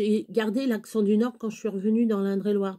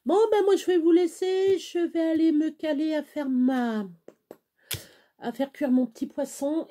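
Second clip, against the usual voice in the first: bright sign-off; 6 semitones higher than usual. Real, not acted. Cheerful sign-off, pitch jumps up.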